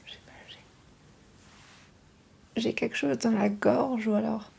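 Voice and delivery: voix enrouée par un rhume; voix rauque. Real, not acted. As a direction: chuchoter avec la gorge prise. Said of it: "J'ai une voix un peu rauque". (voix cassée d'enrhumée)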